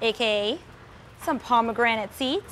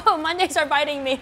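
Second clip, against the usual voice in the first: mouth burning from spicy food; 3 semitones higher than usual. Real, not acted. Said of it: "it's so hot".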